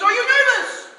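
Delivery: loud, high laughing stage patter; hammy host bit; cheesy showman. Retold or imitated. Performer hamming an old joke at Lenny.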